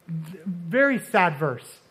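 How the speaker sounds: a grieved pastor's slow aside; sad, slow. Real, not acted. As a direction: let the sadness slow you down. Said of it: "calls verse sad, slows".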